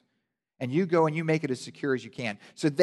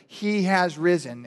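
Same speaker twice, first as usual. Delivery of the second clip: slow, louder announcement; proclaiming the news, a little higher; angel proclaiming; 5 semitones higher, 6 dB louder, slower than usual. Acted. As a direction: declare it slowly. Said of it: "it went something like this".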